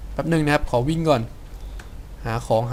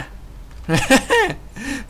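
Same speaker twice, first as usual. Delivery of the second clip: high giggle; 11 semitones higher than usual. Real, not acted. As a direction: chuckle at own joke. Half-Life crowbar joke.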